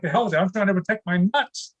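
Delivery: half-volume pretend shout; mock yell back. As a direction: imitate hollering back at the teacher. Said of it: "I'd yell back".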